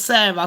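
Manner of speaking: "Sarah" with an eh vowel, SEH-ra; pronounced SEH-ra. Shown as a demonstration. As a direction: say "Sarah" to rhyme with Sera. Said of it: "'cause it's spelled with an H".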